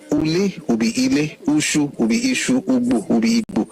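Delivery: Ule, Ushu, Ugbo with an initial oo, Ile, Ishu, Igbo with an ee; dialect vowel contrast. Shown as a demonstration. Explaining Yoruba dialects, Ule with oo becomes Ile with ee. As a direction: set oo in Ule against ee in Ile, likewise each pair. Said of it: "we use U. Northern, we use I".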